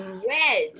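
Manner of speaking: वेड with lips pushed forward like a kiss; lips rounded as if to kiss. Shown as a demonstration. Teacher to online class, वेड with rounded lips. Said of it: "आपको किस करते हुए बोलना है".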